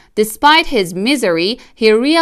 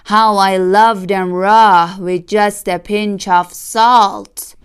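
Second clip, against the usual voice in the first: slow, savouring dream talk; dreamy hungry fox; 4 dB louder, slower than usual. Acted. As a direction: relish every word half asleep. Fox dreaming under gas.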